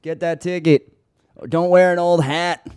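mock announcer.

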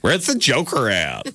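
slow, lightly hammed-up superhero line; Batman. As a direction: slowly deliver a mock movie-hero entrance line. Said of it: "and he's like".

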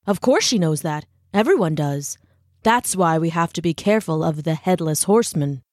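lightly voiced, matter-of-fact man; wry stonecutter. Brahm interrupts the lecture with a tall tale, lightly voiced knowing tone. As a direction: state it knowingly, with understated mischief.

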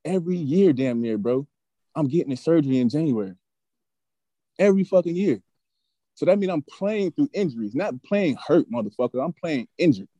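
heated, emphatic protest; reliving an angry comeback; retold boiling anger. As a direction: argue your case with rising indignation. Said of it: "now my blood is boiling".

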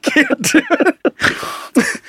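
very slow, high dog voice. Retold or imitated. The dog refusing its owner, drawn out. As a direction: drag it out like a stubborn dog. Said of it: "He's just like".

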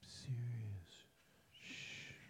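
urgent whispered shush; whisper yelling. Pretend. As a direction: hiss it sharply under breath. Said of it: "Why are we whispering?".

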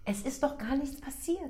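mock quote. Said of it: "der beste Satz ist".

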